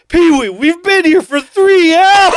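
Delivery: high, loud and slow, breaking into giggles; laughing mock quote. Quoting a movie line to friends, laughing high and loud. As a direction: mimic the line through laughter.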